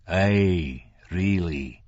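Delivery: controlled, cold insistence; coldly insistent. A narrator's reading. Man overrules Franklin's refusal, coldly insistent. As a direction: press it coldly, without raising the voice. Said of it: "in a tone so coldly insistent".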